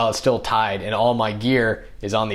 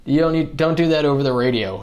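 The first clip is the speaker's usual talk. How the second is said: higher, louder hurried hey hey; urgent protest; 6 semitones higher, 4 dB louder than usual. Retold or imitated. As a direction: cut them off before they broadcast it. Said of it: "I was like".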